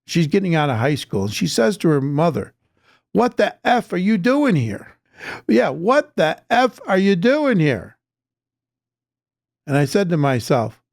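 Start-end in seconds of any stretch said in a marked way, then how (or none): 3.1-8.0 mock snapping at mom, pitched up; mimicking a daughter yelling. Teen girl mouthing off to her mother, mock angry. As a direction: sneer it like a bratty teen. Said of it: "to yell at her mother".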